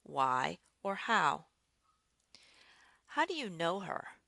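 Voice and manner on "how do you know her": "How do you know her" up early, then falling; rising-falling question. Shown as a demonstration. Teacher showing a "how" question, rising-falling intonation. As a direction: let the question fall on "her". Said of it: "Another place we use the rising, falling".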